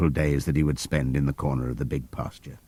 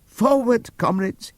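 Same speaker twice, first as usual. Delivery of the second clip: Squealer quoting a whisper; slower than usual. Acted. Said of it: "he whispered".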